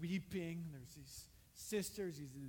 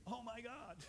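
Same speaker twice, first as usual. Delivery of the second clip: hopeful prayerful oh my God; 5 semitones higher than usual. Shown as a demonstration.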